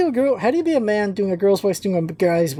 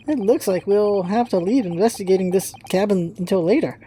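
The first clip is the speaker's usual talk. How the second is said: normal talking voice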